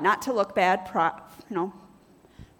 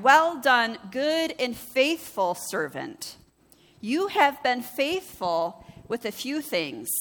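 slow solemn reading; slower than usual. Acted. Reading master's words in parable.

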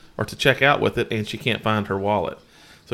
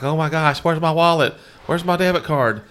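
higher mock-frantic where's my wallet; retelling wife's panic over the debit card, higher; imitating panic; 5 semitones higher than usual. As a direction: act out her scramble for the card. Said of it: "she's panicking".

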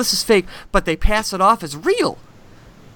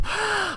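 mock gasp; 13 semitones higher, 8 dB quieter than usual. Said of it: "Kitty seems very out of breath".

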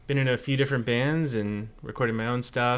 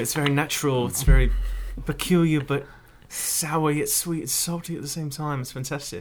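put-on posh British accent. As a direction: play a wealthy British gentleman. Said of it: "You sound like a wealthy British person".

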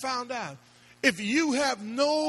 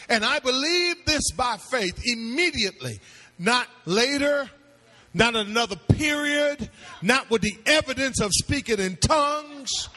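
forceful, building list of denials; insistent pulpit declaration; emphatic preaching; 3 semitones higher, 3 dB louder than usual. Real, not acted. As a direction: drive each phrase home to the congregation. Preaches doctrine at full force.

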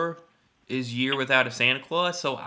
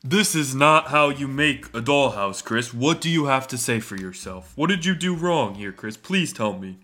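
Santa voice. Pretend. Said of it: "I'm Santa".

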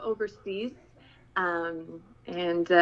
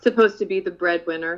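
"supposed to be" set off louder, as if in air quotes; 5 dB louder than usual. Real, not acted. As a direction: mark "supposed to be" as doubtful with your voice. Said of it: "I'm putting air quotations around".

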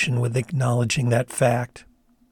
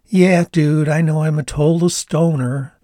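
higher self-mocking Canadian voice; rueful Canadian stoner; Canadian accent; 4 semitones higher, 4 dB louder than usual. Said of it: "she said, frowning".

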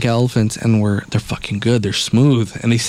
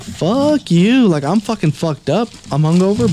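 mock defiant; 8 semitones higher than usual. Telling off the driver.

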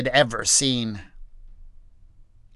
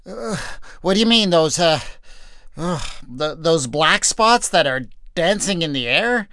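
hesitant, exhausted stammer; confused and dizzy, stumbling over words; dazed, faltering soldier; 4 semitones higher than usual. Acted. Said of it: "he finally asked".

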